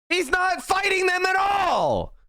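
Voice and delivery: high furious shout; yelling. Real, not acted. Streamer yelling about Biden to two thousand viewers, outraged shout. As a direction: blast it out in outrage. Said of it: "It's not just me yelling at the T V".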